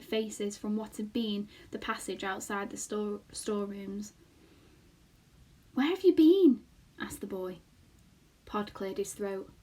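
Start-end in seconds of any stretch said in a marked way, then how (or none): 5.7-6.6 higher, louder worried ask; urgent question. Acted. Boy asking the frightened family, urgent and louder. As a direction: demand to know where they went.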